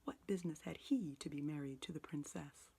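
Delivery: between laughing and crying. A narrator's reading. Scrooge pointing out storybook figures, giddy and tearful. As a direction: tumble over the words like an excited child. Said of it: "in a most extraordinary voice between laughing and crying".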